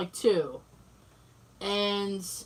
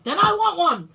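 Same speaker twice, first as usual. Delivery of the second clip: higher, louder mock eagerness; eager exclamation; 6 semitones higher, 7 dB louder than usual. Friend answering the bartender, eagerly imitated. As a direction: jump at the offer, imitating an excited customer. Friend jumps at Japanese beer offer.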